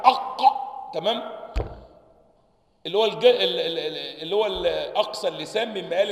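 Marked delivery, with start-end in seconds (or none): 0.0-0.4 أق with the tongue back raised to the palate; isolated qaf sound. Shown as a demonstration. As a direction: voice أق from the throat. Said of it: "بيطلع لفوق للحنك". (نطق القاف منفردة)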